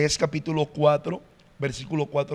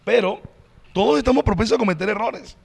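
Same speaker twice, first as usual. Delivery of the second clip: louder and higher, pressing the point home; emphatic insistence; 6 semitones higher, 4 dB louder than usual. Real, not acted. Pastor insisting to the host that everyone errs, louder and higher. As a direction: drive it home to the listener.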